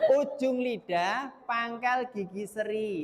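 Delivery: slow, high, deliberate, word by word; slow spelled-out explanation. Shown as a demonstration. Teacher describing tongue placement, slow high deliberate delivery. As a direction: lay out each mouth position slowly.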